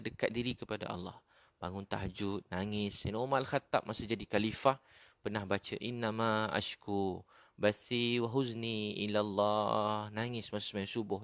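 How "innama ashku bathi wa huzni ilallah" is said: slow, drawn-out Arabic recitation; Quran recitation. Retold or imitated. Preacher quoting a caliph's dawn prayer, slow recitation. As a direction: recite the verse slowly, stretching the syllables.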